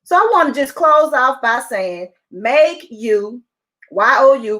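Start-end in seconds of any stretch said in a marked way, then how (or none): 2.3-4.6 YOU set apart and spelled out with weight; stress on YOU. Real, not acted. Urging listeners to put themselves first, stress on YOU. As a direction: say YOU in capital letters, then spell it letter by letter. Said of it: "capital letters".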